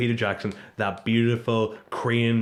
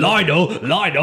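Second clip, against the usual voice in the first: imitating Paquita; 3 semitones higher, 6 dB louder than usual. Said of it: "Our accents are terrible".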